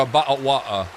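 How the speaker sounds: glottal-stop English accent, t's dropped. Shown as a demonstration. Streamer puzzling over a chatter's accent claim, English accent. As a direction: put on an English "bottle of water". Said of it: "watered down English accent".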